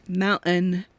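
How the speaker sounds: MOUNTAIN with the middle T swallowed; imitated pronunciation. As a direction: say "mountain" as her local speech has it. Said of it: "She used to say, like".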